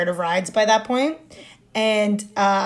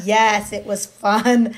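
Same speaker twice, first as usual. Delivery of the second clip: slow agreement; much slower than usual. Retold or imitated. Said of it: "I would have been like".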